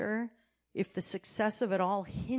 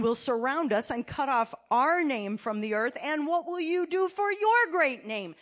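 fervent prayer; 2 semitones higher, 5 dB louder than usual. Acted. Reading Joshua's desperate prayer.

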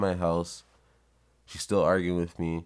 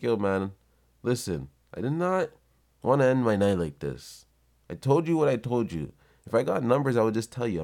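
raised, insistent pushback; acted fed-up protest; 5 semitones higher, 3 dB louder than usual. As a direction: push back firmly, retelling an argument. Acted quarrel after late-night questioning.

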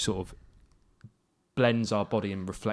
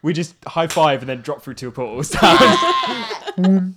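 laughing; 6 semitones higher, 10 dB louder, slower than usual. Real, not acted. Laughing through the high five.

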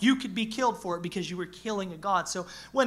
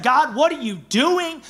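complaining cry; 5 semitones higher, 8 dB louder, slower than usual. Retold or imitated. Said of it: "they've literally said".

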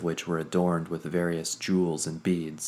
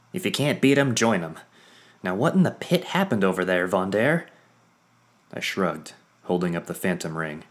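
put-on high, loud, lively mechanic girl; bubbly Quinn; 4 semitones higher, 6 dB louder than usual. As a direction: chatter brightly, teasing. Quinn's voice held.

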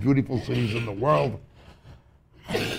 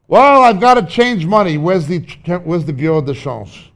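hurried traveller; 5 semitones higher, 8 dB louder than usual. Acted. Acting out airport hassle.

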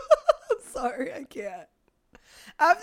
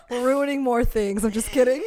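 laughing. Real, not acted. Laughing after the call.

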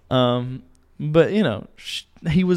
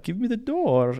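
high, insistent demand; mock angry customer much higher; 11 semitones higher than usual. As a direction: snap it at him like a spoiled customer. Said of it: "she's getting heated".

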